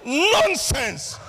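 high-pitched indignant parental outburst; hammed-up African parent dismissing a child; old African parent. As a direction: burst out in mock outrage. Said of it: "Old African parent day".

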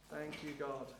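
low, hushed prayer to God; quiet prayer. Real, not acted. Pastor thanking God before the congregation, quiet prayer. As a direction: pray softly and intimately, pitch held low.

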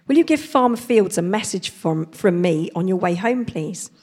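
loud friendly bobby asking a favour; a policeman calling out a request; London policeman. Acted. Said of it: "said the policeman".

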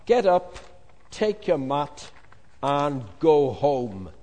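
booming slow command. Acted. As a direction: order him up with full authority. Jesus commands the paralytic.

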